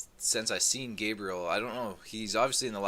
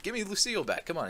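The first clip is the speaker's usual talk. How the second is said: higher, pleading mock voice; mock whiny Negan; 10 semitones higher, faster than usual. Negan begging Dwight for his bat, mock whiny. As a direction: whine like a kid wanting his toy. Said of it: "Negan's like".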